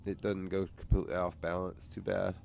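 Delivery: talking while holding breath; squeezing words out on little air. Real, not acted. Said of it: "I can't breathe".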